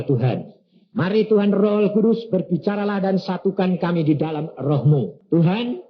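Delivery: earnest pastor's prayer to God; fervent spoken prayer; leading prayer. Acted. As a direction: pray aloud for the congregation. Leads congregation in prayer.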